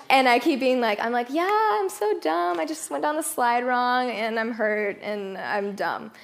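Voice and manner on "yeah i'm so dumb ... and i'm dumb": light self-mocking. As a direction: brush it off with a nervous laugh. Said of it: "trying to, like, be light about it".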